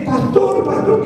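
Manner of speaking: high calling out pastor; mock shout. Woman in a wheelchair calling after the pastor, high pleading shout. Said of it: "una mujer comienza a gritarme".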